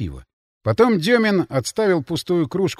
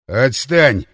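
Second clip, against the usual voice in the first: brushing off; 3 semitones lower, 6 dB louder than usual. Acted. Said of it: "Отмахнулся от него Ворон".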